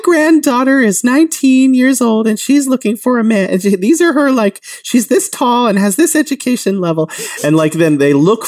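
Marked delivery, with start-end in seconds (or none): 0.0-3.0 high chattering grandmother voice, pitched well up; grandma voice. Retold or imitated. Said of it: "amazing grandma voice you have". 3.0-7.1 high chattering grandmother voice, pitched well up; grandma voice. Retold or imitated. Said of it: "amazing grandma voice you have".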